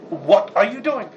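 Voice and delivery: slow, weighted "What are you doing?" as a real challenge; stern questioning. Shown as a demonstration. Father questioning the kid, slow stern challenge. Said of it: "then there's the next level".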